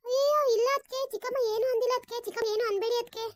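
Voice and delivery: high, loud, whiny protest; overacted denial. Akshata loudly overacting her denial to her elder, whiny. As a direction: overact the innocent, wailing no. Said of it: "over acting ಆಡ್ಬೇಡ".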